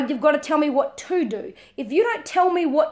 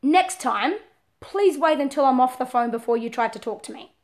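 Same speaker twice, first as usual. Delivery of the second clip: calm request; 2 semitones lower than usual. Shown as a demonstration. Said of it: "it might be".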